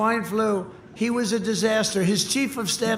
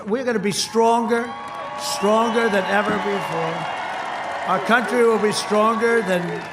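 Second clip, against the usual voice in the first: rally shout; 3 semitones higher than usual. Real, not acted.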